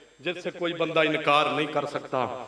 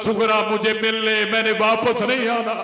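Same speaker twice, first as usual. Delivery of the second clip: louder, rising lament of a father; grieving farewell cry; 4 semitones higher, 4 dB louder than usual. Retold or imitated. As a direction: cry out the last goodbye, swelling at the end. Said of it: "बाप कह रहा था". (ऊँची आवाज़ में रोता हुआ अलविदा)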